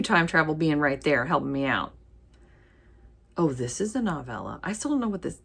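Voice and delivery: ordinary delivery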